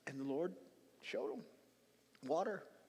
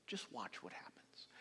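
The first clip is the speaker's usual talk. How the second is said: slow, whispered suspense; hushed build-up; 8 semitones lower, 10 dB quieter, slower than usual. Real, not acted. Preacher hushing the congregation before the miracle. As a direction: draw them in with a whisper.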